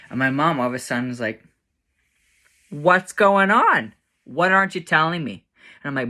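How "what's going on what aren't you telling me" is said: high, drawn-out imitation of a demanding mom. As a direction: press for answers, pitched up. Mom suddenly demands the truth.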